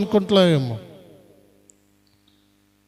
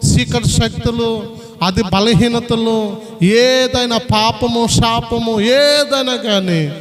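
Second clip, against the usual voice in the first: slow, drawn-out sermon list; preaching emphasis; slower than usual. Acted. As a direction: spell out each evil slowly, with weight. Preacher lists enemies, drawn out. (నెమ్మదిగా ఒత్తిడితో ప్రసంగం)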